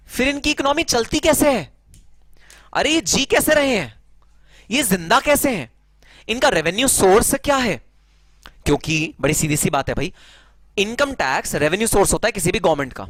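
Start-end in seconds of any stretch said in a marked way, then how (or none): 0.1-7.8 high-pitched, incredulous questions; puzzled questioner. Acted. Student asking sir how tax havens survive, incredulous. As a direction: ask in raised-pitch disbelief, like a baffled student. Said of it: "तो sir, एक बात बताइए".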